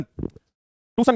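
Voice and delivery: ट्यूशन said "too-sun", s for sh; misspelling voiced. Shown as a demonstration. Teacher reading another child's mistake, ट्यूशन mispronounced "toosun". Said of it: "ये लिखा हुआ है ट्यूशन".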